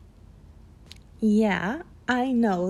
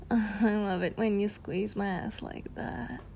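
softer, sultry murmur; 5 dB quieter than usual. Acted. Enjoying the listener's touch, soft sultry murmur. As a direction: murmur it close.

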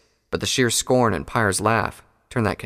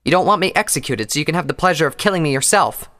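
higher, sharper mare voice; Pyre's voice; 7 semitones higher, 5 dB louder than usual. A narrator's reading. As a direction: voice her as a scornful prisoner. Pyre voiced by narrator.

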